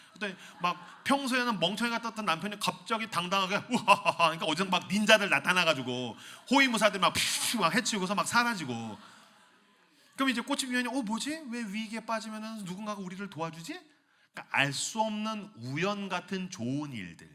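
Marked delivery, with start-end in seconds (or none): 3.7-4.2 bold hearty laugh. Acted. Confident hero laugh. 10.9-13.8 puzzled wife, higher. Acted.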